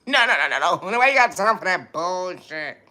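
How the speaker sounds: hammed-up high-pitched no-no-no; mock high dismissal. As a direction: brush it off in a high cartoon voice. Laughing dismissal in put-on voice.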